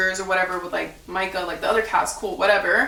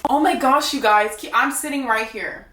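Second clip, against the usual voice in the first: higher gushing mock girl voice, lightly done; mocking fake excitement; 3 semitones higher than usual. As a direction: imitate her gushing with sarcasm. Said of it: "She goes".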